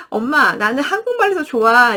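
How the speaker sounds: a son telling mom he prefers Korean; child voice. Retold or imitated. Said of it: "그렇게 얘기도 합니다". (살짝 아이 흉내)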